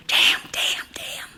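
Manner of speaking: frustrated under-the-breath whisper; teen cursing at a dead remote in a whisper. A narrator's reading. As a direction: hiss the curse to yourself, fading away. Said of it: "he kept whispering".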